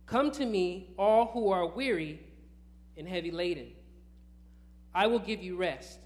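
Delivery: measured proclamation, pausing between phrases; scripture reading. Acted. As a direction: read it out to the congregation, phrase by phrase. Reads the scripture aloud.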